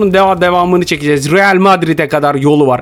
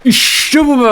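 excited cheer; 10 semitones higher, slower than usual. Real, not acted. Celebrating a goal.

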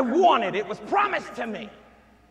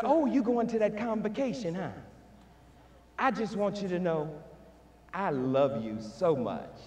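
loving, same tone; 4 semitones lower, 5 dB quieter than usual. Shown as a demonstration. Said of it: "same voice tone, same inflection".

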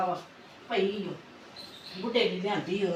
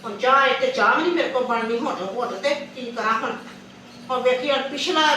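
loud complaint; 3 semitones higher, 4 dB louder than usual. Acted. Complaining, cannot make tea.

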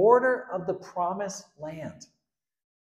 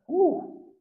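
high, sudden hammed-up yelp of temper; mock angry outburst; 13 semitones higher, 3 dB louder than usual. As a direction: blow up for a second. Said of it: "he just loses his temper".

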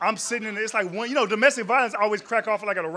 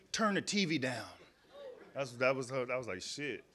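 softer, lower eavesdropping murmur; hushed retelling; 7 semitones lower, 13 dB quieter than usual. Retold or imitated. Comic retelling what he hears through the wall, softly. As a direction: keep it low like listening at the wall.

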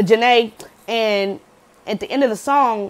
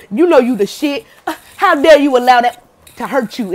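louder, pumped-up friend hyping you up; hyped pep talk; 2 semitones higher, 6 dB louder than usual. Retold or imitated. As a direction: talk them up like a hype friend.

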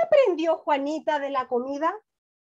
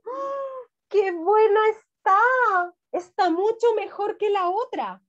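put-on high, slow, delighted little girl tasting soup; delighted child; 6 semitones higher, slower than usual. Teacher reading the girl's line to her class, delighted and slow. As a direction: savour every word like a hungry child. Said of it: "Juanita la probó y dijo".

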